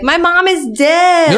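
put-on panicked child's yell; retold scream. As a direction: yell it like a scared kid. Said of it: "I would run screaming".

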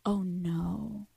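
sheepish whispered realization. Pretend. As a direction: breathe it out, caught out.

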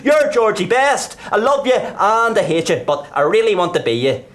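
high, loud mimicry of adoring fans; mock fan screaming. The speaker mimics screaming fans to the clown, loud and high. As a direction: shriek it like a crowd of obsessed fans. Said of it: "and screaming".

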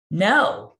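high, loud, drawn-out "No"; retold emphatic denial. Agent denying she has other leads, mock-dismayed outburst. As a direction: imitate a dismayed agent blurting it out.

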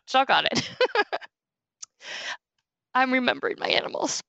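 fighting back tears; choked up. Real, not acted. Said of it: "Oh, I'm choking up".

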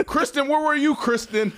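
high, loud, laughing call. Real, not acted. Calling Kristen out, loud and laughing. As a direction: shout her name out teasingly.

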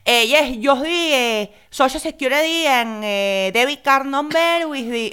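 high, halting Spanish-accented caller impression; thick Spanish accent. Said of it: "this guy with the thickest accent".

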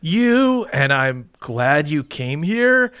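sincere. Acted. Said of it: "but you mean it".

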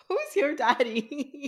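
slow, high teasing drawl; sultry catchphrase. Pretend. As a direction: draw it out like a come-on. Joking catchphrase.

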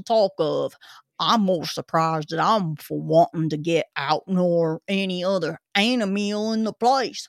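put-on gruff old Cockney zookeeper; Cockney accent. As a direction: grumble it like a London keeper. Zookeeper character continues.

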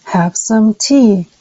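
slow learner echo; unhurried careful imitation; slow repeat. Shown as a demonstration. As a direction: echo it back slowly. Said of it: "did you hear my voice echo".

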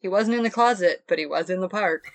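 amused, repeating her line through a laugh; quoting through giggles; laughing while quoting. Retold or imitated. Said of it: "the way you're saying things".

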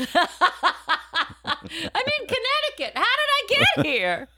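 high bewildered voice; confused passenger. Retold or imitated. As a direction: sound lost and baffled.

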